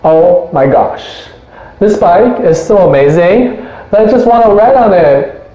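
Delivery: put-on light, gushing valley girl. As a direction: play a hint of an airy valley girl. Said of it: "makes me wanna speak like a valley girl".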